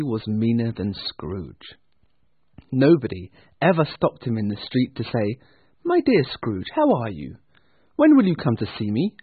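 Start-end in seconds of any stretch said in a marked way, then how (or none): 5.8-9.1 high, lilting greeting; friendly passer-by. Acted. Passer-by hailing Scrooge in the street, friendly. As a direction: greet him pleasantly, voice lifted.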